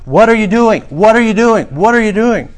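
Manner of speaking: high, loud, urgent demand; imitated shouting. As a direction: shout it like an alarmed in-law, rapid-fire. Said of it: "brother's wife shouting".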